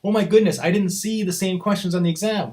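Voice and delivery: lightly voiced panicky student; mild mock panic; mock freaking out student. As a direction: imitate a student freaking out, half-hearted. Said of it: "Some people freak out and say".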